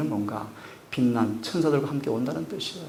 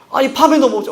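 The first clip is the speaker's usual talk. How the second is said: much higher, louder outburst; loud protest; 12 semitones higher, 13 dB louder than usual. Retold or imitated. Peter arguing with Jesus, loud high outburst. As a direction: Peter pushing back hard.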